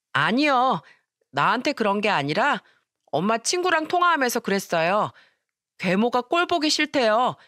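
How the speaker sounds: lightly voiced little boy, innocent and curious; child voice. Seven-year-old boy asking grandma innocently, childlike.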